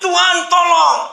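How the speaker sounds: high, loud, drawn-out scream to God; shouted cry for help. Acted. Falling man in a story calls on God, desperate shout. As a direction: yell it as if falling. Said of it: "dia berteriak".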